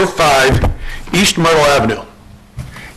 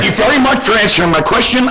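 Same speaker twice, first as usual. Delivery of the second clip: bottled up frustration; 4 semitones higher than usual. Real, not acted. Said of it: "I'm trying very hard not to yell".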